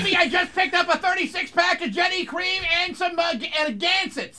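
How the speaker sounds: mock Boston accent, high; Boston bro. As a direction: play along as a Massachusetts party guy. Joins the Boston bro bit.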